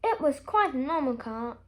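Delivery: ordinary delivery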